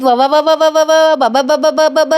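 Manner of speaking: lightly voiced silly taunting noises; teasing nonsense syllables. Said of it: "काहीतरी काही घाण आवाज काढतोय". (कलाला चिडवणारे हलकेसे विचित्र आवाज)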